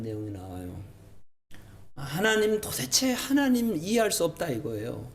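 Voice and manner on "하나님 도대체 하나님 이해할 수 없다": high-pitched, exasperated protest; acted prophet's complaint; arguing with God. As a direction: challenge God in bewilderment. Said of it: "예레미야가 막 따지듯이 물어요".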